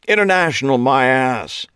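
loud high scoff; scoffing British Clive. A narrator's reading. Clive mocking the restaurant's name to Eli. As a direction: spit the word out in disdain.

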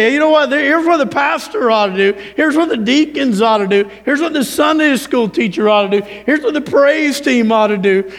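lightly mocked bossy churchgoer; sideline critic. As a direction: imitate a busybody telling everyone their job. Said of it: "They wanna, they wanna say".

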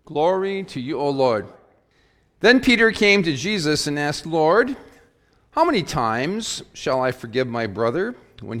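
measured formal gospel reading; scripture reading. Acted. Pastor reading Matthew to the congregation, formal scripture reading. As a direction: proclaim the text to the congregation.

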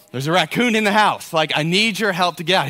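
mock-urgent plea; fake panic. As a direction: sell the fake emergency. Faking alarm to son.

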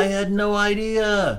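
slow, squeaky high voice; high-pitched voice. Pretend. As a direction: pitch way up and drawl it. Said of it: "talking in such high voices".

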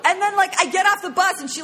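high-pitched, laughing telling; can barely hold back the laughter; laughing through it. Real, not acted. Laughing over confused dog.

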